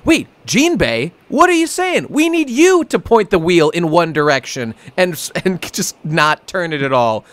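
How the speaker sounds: high, hammed-up panicked questioning; goofy high-pitched disbelief; mock alarm. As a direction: pretend to freak out at Jinbei. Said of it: "I'm making a goof".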